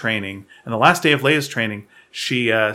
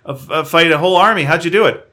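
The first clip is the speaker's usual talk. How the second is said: higher, fast, desperate asking; pleading; 4 semitones higher, faster than usual. Acted. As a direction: beg for answers. Voicing desperate Poe.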